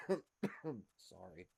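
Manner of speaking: raspy voice after a cough; hoarse, cough-roughened voice; smoker's rasp. Real, not acted. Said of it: "it sounds like a grown man smoker's cough".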